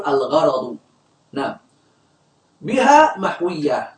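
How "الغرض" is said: الغرض said al-gharaḍu, with an a after the r; correct fatha vowel. Shown as a demonstration. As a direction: repeat الغرض correctly as gha-ra-ḍu. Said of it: "نقول".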